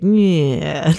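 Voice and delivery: mock groggy noise of feeling off; foggy-brained meh. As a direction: voice a sluggish, out-of-it meh. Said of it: "our brain is foggy and we're just like".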